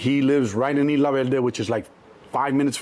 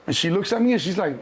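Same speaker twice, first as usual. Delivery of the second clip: normal talking voice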